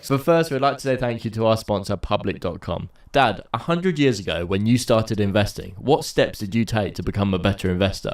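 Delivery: ad read. Acted. Sponsor ad read.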